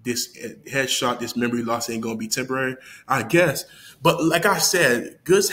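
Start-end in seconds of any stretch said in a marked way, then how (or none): 0.0-3.6 unimpressed. Retold or imitated. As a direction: recite the bar with no energy, unconvinced. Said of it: "I'm like".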